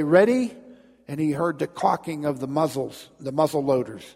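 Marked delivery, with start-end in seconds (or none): 0.0-0.5 loud, high command; barking orders. Acted. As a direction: call it like a firing squad officer. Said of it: "officer barking orders".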